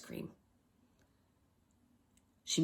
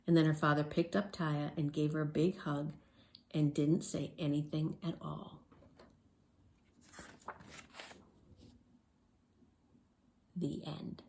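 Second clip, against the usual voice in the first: lower, soft read-aloud ending; hushed, low storybook close; storybook narration; 4 semitones lower, 7 dB quieter than usual. A narrator's reading. Reads story ending softly.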